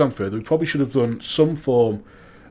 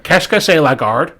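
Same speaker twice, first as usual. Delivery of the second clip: bad French accent; 5 semitones higher, 7 dB louder than usual. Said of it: "my French accent was left a lot to be".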